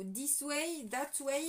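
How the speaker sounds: put-on English words in a light French-English accent; mock English accent. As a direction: toss out "This way" and "that way" with a playful English accent. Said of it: "avec mon accent English". (avec un petit accent anglais pour rire)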